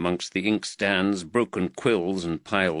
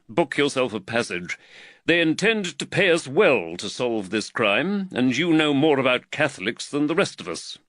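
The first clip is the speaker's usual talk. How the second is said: slightly raised, earnest magistrate voice; the worried magistrate, lightly voiced a touch higher; voice of Reed; 4 semitones higher than usual. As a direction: magistrate fretting over costs, lightly voiced.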